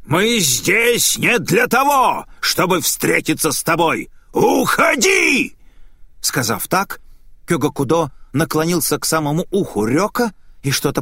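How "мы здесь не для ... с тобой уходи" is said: commanding shout. Acted. Exorcist Kyoga Kudo orders the spirit to leave. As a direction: cast the spirit out.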